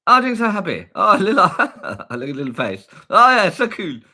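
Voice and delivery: high, loud squeal of delight, laughing; giggly delight. Real, not acted. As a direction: gush excitedly through giggles. Delighted reaction to monkey eating.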